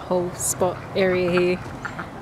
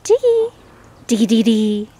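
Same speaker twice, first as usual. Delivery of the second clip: high call; 3 semitones higher, 7 dB louder than usual. Real, not acted. Calling duck by name.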